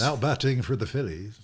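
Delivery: over a PA system. Pretend. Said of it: "my Dan Baker impersonation".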